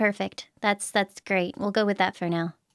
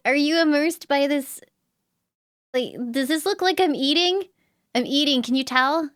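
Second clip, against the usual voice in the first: talking with mouth full; 3 semitones higher than usual. Real, not acted. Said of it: "I'm talking with my mouth full".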